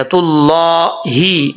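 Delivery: तुल्लाही slowly, with a long, full-mouthed "llaa"; thick lam. Shown as a demonstration. Teacher showing Allah's name read thick, careful recitation. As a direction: end तुल्लाही on a clear long "hee". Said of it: "अल्लाह का नाम मोटा पढ़ा जाएगा".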